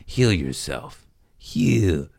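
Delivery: heal them with your voice, slowly; mock therapist calmly healing the room; soothing therapeutic voice. Shown as a demonstration. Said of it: "I got a therapeutic voice".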